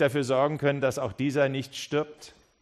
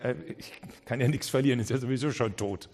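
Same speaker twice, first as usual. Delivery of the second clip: shrugging doubt. Pretend. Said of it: "dass du sagst".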